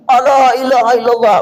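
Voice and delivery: shouting the tahlil. Retold or imitated. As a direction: belt it out like a crowd calling. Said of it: "berteriak kami".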